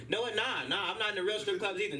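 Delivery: high, insistent denial. Retold or imitated. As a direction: protest a little too much. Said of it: "I'm like".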